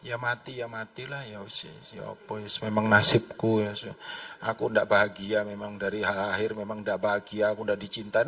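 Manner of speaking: low, soft, defeated moaning; passive self-pity. Acted. Believer lamenting their fate, quiet acted hopelessness. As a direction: mope quietly as if fate is settled. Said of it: "kita jadi pasif".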